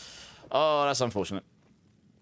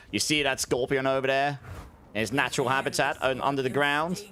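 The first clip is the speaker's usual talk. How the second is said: Steve Irwin Australian. Retold or imitated. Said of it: "I can't do an Australian accent".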